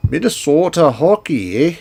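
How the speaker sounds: light mock Minnesota accent, leaning on the eh; an offhand, half-hearted Minnesota impression. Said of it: "let me do my best, uh, Minnesota accents".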